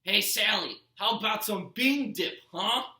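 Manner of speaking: loud, demanding bellow from another room; Gabe yelling. A narrator's reading. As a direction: holler for service. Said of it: "Gabe yelled".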